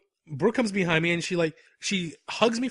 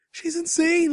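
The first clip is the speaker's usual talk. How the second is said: mock shock; 13 semitones higher, 4 dB louder, slower than usual. Table of women reacting in shock.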